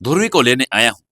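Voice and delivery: a light smile in the voice; smiling. A narrator's reading. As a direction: greet her with a small smile. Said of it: "मुस्कुराकर बोला". (हल्की मुस्कान के साथ)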